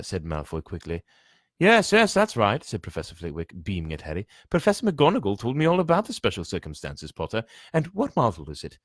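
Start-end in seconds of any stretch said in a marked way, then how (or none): 1.6-2.6 high, excited little professor voice; squeaky Flitwick. A narrator's reading. Flitwick beaming at Harry, high squeak. 4.5-8.8 high, excited little professor voice; squeaky Flitwick. A narrator's reading. Flitwick beaming at Harry, high squeak.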